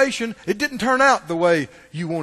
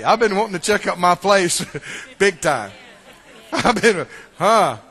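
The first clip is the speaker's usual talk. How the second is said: laughing through a joke; amused laughing quip; 2 semitones lower than usual. Real, not acted. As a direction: chuckle while joking. Joking laughing about death.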